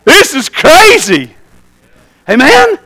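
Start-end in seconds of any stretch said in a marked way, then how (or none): 0.0-1.3 slow, chuckling disbelief under his breath; amused slow mutter through a laugh; laughing to himself. Retold or imitated. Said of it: "I laughed to myself".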